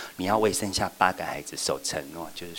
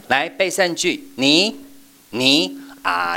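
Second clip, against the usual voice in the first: loud, high, slow scolding teacher; mock-harsh teacher calling out a slip; wrong way demo; 10 semitones higher, 6 dB louder, much slower than usual. Shown as a demonstration. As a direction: bark at the child for the missing word. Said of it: "不是说".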